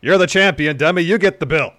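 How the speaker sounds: loud, high-pitched cocky wrestler voice; L A Knight. Acted. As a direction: boom it out like a wrestler cutting a promo. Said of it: "conversation between L A Knight".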